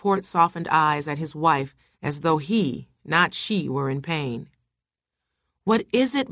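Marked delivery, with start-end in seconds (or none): 5.7-6.3 higher-pitched worried question; a touch of alarm, pitched up; urgent questioning. A narrator's reading. Husband questions his screaming wife, mildly alarmed.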